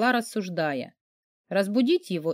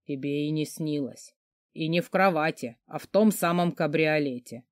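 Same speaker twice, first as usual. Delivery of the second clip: a hint of a lower, smug man's voice; lightly voiced boastful boss; 3 semitones lower than usual. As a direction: brag lazily, barely lifting the voice.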